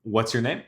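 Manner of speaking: name lifted up at the end; rising question tune. Shown as a demonstration. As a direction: ask it with a hopeful upswing. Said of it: "when the voice goes low to up, like in a question".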